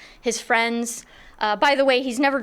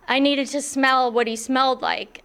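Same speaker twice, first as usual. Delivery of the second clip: laughing; 2 semitones higher than usual. Real, not acted. Laughs at her own confession.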